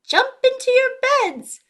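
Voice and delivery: high, loud father call; holler. Acted. Papa Kiwi calling his kids to bed, hollering. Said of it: "Papa Kiwi hollers".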